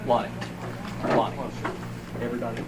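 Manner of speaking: calling out names across a room; yelling across the room. Real, not acted. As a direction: raise your voice to reach the back.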